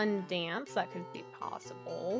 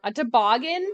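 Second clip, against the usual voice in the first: surprised; 2 semitones higher, 9 dB louder than usual. Real, not acted. Surprised by puzzle item.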